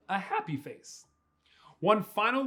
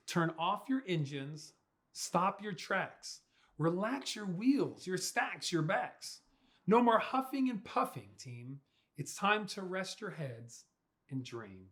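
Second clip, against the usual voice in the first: soothing; 4 dB quieter than usual. Acted. Lulling trucks to sleep.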